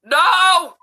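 indignant shout. Real, not acted. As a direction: bark the denial. Answering grandchild indignantly.

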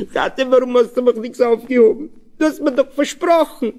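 put-on high, tearful child's reproach; child sobbing at father who let him fall. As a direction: ask through tears like a hurt little boy. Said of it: "fragt schluchzend".

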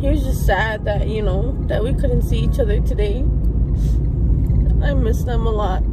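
overwhelmed, apologising through tears; crying while talking. Real, not acted. Missing her family on her birthday, crying. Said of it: "Sorry guys, I'm crying".

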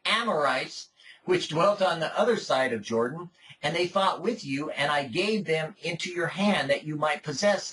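measured, solemn Bible reading voice; formal, unhurried reading; scripture reading. Acted. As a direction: read the passage aloud to the congregation. Reads scripture aloud.

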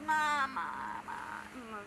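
imitating baby crying mama. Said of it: "She just goes".

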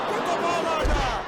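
screaming football commentator. Acted. Goal call, loud.

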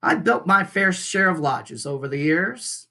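lightly voiced old beaver, matter-of-fact; a hint of a seasoned beaver builder; gruff Mister Beaver.

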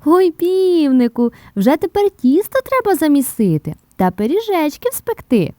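loud, high-pitched happy mice; delighted. A narrator's reading. Mice rejoicing at the flour, urging baking, delighted high cry. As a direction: cry out gleefully, drawing out the first words. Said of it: "пораділи".

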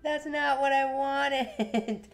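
high, loud drawn-out cry of dismay; real upset, loud and stretched out; distraught wail. Real, not acted. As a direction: wail in real panic over a blunder. Distraught at her own game mistake.

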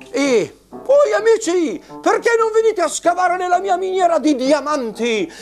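high squeaky miner puppet; squeaky shrill puppet voice. Acted. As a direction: chirp like a cheerful puppet.

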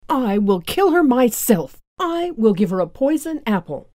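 a touch of a wicked queen; evil queen voice. A narrator's reading. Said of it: "Then the evil queen said".

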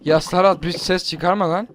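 loud sharp call across the room; shouting. Real, not acted. Telling friend to shut up.

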